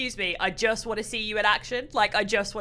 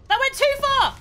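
dismayed yelp; 7 dB louder than usual. Real, not acted. Dismay at a game mistake.

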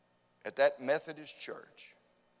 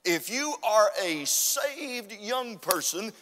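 climbing higher and louder, then slowing to a ringing call; preaching at full force; 7 semitones higher, 4 dB louder than usual. Real, not acted. Preacher urges the congregation to get rid of the stuff, rising to a ringing shout. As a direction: build each line like a revival climax.

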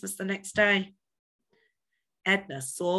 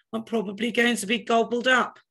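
higher, louder mock panic; a small creature sure it will be eaten; panicked; 5 semitones higher, 5 dB louder than usual. A narrator's reading. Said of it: "he panicked".

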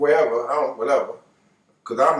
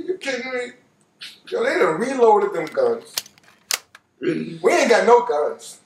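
incredulous; 2 semitones higher than usual. Retold or imitated. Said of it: "I said".

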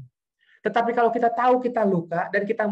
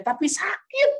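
much higher, imitated anguished cry; retold crying protest; 12 semitones higher, slower than usual. Aunt clutching her chest as she protests, imitated high cry. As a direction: wail it as the hurting woman would. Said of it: "Dia menangis, dia teriak".

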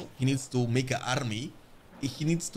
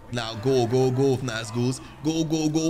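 urgent go go go; loud rallying cheer; louder cheering on; 5 dB louder, slower than usual. Real, not acted. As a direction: push the units forward, louder. Urging his units on.

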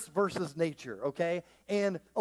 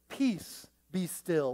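prim, sterile King James reading; much slower than usual. Shown as a demonstration. Quoting the old King James Version, stiff and sterile. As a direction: read it stiff and proper. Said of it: "which is so sterile".

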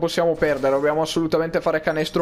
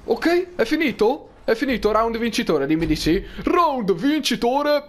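excited; 5 semitones higher than usual. Real, not acted. Round won in game.

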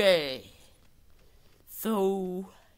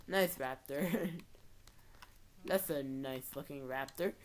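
quiet, dry sarcastic praise; mock admiration, lightly laughed; 4 semitones lower, 7 dB quieter than usual. Real, not acted. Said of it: "I'm being very sarcastic".

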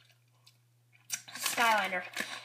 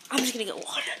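whispering; faster than usual. Real, not acted. Kid whispering aside to camera.

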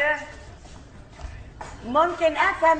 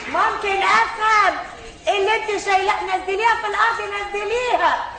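raised insistent voice; 5 semitones higher than usual. Acted. Demanding she put it down.

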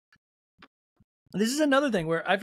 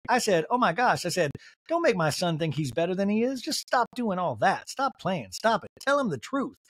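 lightly voiced Southern lady scolding; a hint of Southern accent, exasperated; 2 semitones higher than usual. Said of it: "doing her as a Southern lady".

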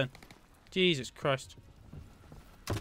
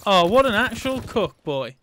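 stunned disbelief; 4 semitones higher, 6 dB louder than usual. Real, not acted. Amazed at enemy's kill.

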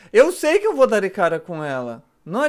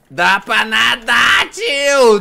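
excited shout; 6 dB louder, much slower than usual. Real, not acted. Shouting amazed at game.

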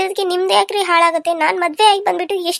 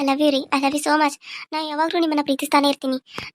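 tender confession. Acted. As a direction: draw each word out lovingly. Wife confesses love tenderly. (ಮೃದುವಾಗಿ ನಿಧಾನವಾದ ಪ್ರೀತಿಯ ಮಾತು)

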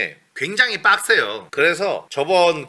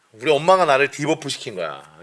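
usual speaking voice

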